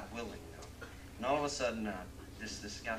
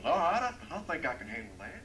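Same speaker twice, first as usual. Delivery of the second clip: cowboy accepts; 5 semitones higher, 8 dB louder than usual. Acted.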